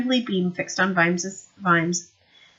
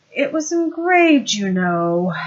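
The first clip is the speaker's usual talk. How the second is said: mournful; 3 semitones higher, 6 dB louder, much slower than usual. Acted. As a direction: let the loss weigh on each word. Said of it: "said Tilden mournfully".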